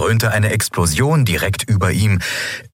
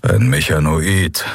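gebrummt; 3 semitones lower, slower than usual. Acted. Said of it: "brummte Kero".

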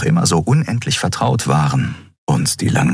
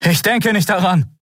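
higher defiant refusal; defiant Kai; 14 semitones higher than usual. A narrator's reading. Kai refuses Kero while fleeing, higher voice. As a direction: refuse him over your shoulder, higher.

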